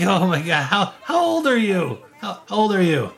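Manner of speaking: high goblin voice laughing in disbelief; mocking goblin. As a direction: sneer the question through giggles.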